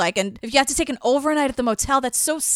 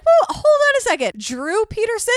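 mock disbelief. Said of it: "they're like".

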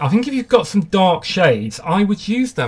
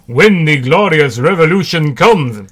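mock Russian accent, louder; hammed-up Russian revolutionary; 6 dB louder than usual. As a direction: declaim it in a jokey Russian accent. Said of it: "that's my Russian accent".

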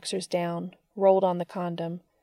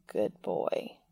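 suppressed smile; 6 dB quieter than usual. Acted. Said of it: "biting his lip to keep from smiling".

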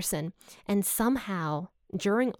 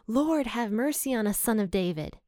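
mild crying out; 2 semitones higher than usual. Retold or imitated. Blind men undeterred by the crowd, mildly crying out. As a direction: imitate an insistent plea without shouting. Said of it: "they're crying out even more".

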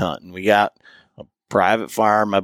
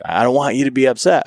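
put-on higher and fast, anxious child; mock little daughter; 4 semitones higher, faster than usual. Father quoting daughter afraid he'll be mad, fast high child voice. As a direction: rush it like a worried little girl.

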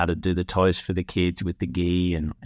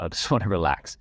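laughs mid-line, half amused; laughing. Real, not acted. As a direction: break into a chuckle on the repeat.

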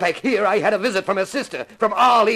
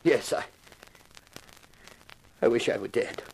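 broken, hopeless; 9 semitones lower, 7 dB quieter than usual. Acted. Broken murderer admits guilt.

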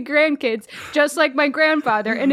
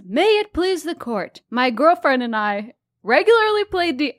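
bailiff reading; 2 semitones higher than usual. Acted. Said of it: "put on your bailiff mask".

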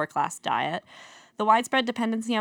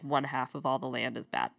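softer unvoiced whisper; dramatic whisper; 6 semitones lower, 7 dB quieter than usual. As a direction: drop to a hushed ominous reveal.

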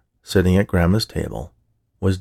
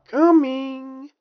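high sing-song cheery call; inappropriately cheerful. A narrator's reading. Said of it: "in an unusually cheery tone".

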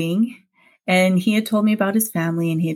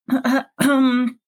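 halting, higher-pitched admission; hesitant confession; 6 semitones higher than usual. Retold or imitated. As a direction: stammer toward an awkward reveal. Awkward confession to boyfriend's father.

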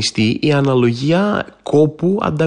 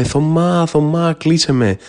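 calling house; 2 semitones higher, slower than usual. Retold or imitated. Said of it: "με φωνάζει".

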